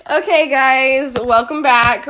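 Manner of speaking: lightly done news anchor; news reporter voice. Acted. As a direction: read it like a morning news host. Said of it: "You have a really news reporter voice".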